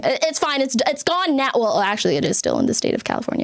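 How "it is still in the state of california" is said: fast, low whispered confession; whispered aside. Pretend. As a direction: rush it out under your breath. Quick guilty aside.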